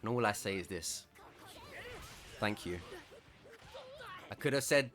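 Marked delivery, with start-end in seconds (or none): 2.4-2.8 genuine thank you. Retold or imitated. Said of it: "And I say it so genuinely".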